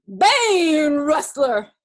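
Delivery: loud, drawn-out angry bellow; riled grizzly cry. A narrator's reading. Riled grizzly accusing the intruder, angry cry. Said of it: "got really riled".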